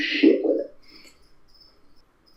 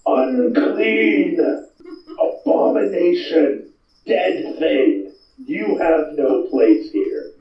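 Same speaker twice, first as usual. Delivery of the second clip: preacher denouncing; 6 semitones higher, much slower than usual. Acted. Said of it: "he points at you".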